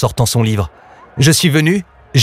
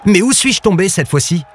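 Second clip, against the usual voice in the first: high-pitched, dismayed question; moaning dismay; 7 semitones higher than usual. A narrator's reading. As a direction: wonder plaintively where you have landed. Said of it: "gémit Lou".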